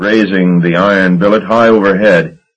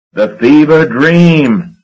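loud, much higher, slow bellow; 9 semitones higher, 4 dB louder, slower than usual. A narrator's reading. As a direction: bellow the boat's name, red in the face. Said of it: "Marsh bellowed".

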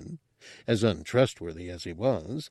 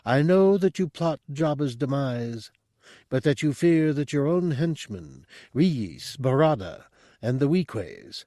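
higher, calm all-knowing monk; mystic monk voice; 4 semitones higher than usual. Acted. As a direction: speak as a serene mystic. Monk's speech read aloud.

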